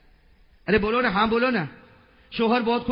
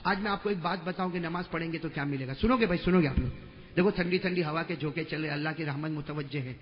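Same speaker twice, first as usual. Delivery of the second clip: soft sermon aside; 5 semitones lower, 4 dB quieter than usual. Acted. Preacher softly drawing listeners in, gentle. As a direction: lower and softer, drawing them in.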